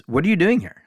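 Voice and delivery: high-pitched puzzled question, retold; mildly startled, re-enacting a colleague's surprise; surprised. Song leader finding his replacement standing there, surprised.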